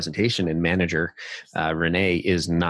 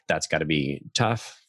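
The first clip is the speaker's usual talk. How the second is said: empathetic; 2 semitones lower, slower than usual. Shown as a demonstration. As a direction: say "tough" with real sympathy, slowing down. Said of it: "an empathetic label".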